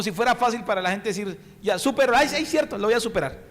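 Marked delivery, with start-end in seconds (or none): 1.6-3.4 sarcastic mock reply. Mocking the griever's reply.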